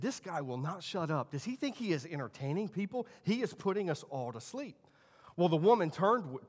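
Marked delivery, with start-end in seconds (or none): 0.0-4.8 mildly grumbled, softer retelling; grumbling. Retold or imitated. Young lieutenant grumbling to the woman beside him, mild grumbling. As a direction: imitate a grumbler keeping it down. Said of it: "he started grumbling to this woman".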